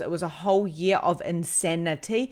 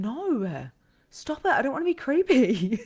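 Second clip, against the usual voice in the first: protesting refusal; 7 semitones higher than usual. Retold or imitated. Arguing back at Emma's urging.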